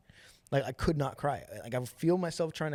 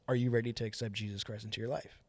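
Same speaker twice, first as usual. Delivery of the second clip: imitating a solemn, direct question, slightly lowered; serious, purpose-driven; 3 semitones lower, 4 dB quieter than usual. Man asking him to accept Jesus, gravely serious. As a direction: ask it earnestly, with steady purpose. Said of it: "so serious and so, like, purpose-driven".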